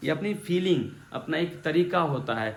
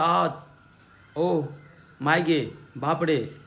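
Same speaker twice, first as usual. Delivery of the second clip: exclamations of surprise; much slower than usual. Shown as a demonstration. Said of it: "वहाँ तुरंत निकलता".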